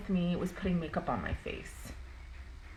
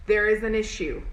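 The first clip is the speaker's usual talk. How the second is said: intercom announcement; 2 semitones higher, 6 dB louder than usual. Retold or imitated. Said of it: "mall intercom announcement".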